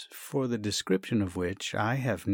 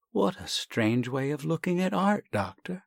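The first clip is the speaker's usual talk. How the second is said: offended; 6 semitones higher than usual. Acted. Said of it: "said Sasha, offended".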